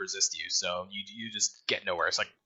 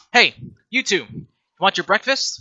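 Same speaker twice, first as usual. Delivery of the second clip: loud, higher call to get attention; calling to underlings; 6 semitones higher, 7 dB louder than usual. Acted. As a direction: call out briskly to two lackeys. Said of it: "she's just like".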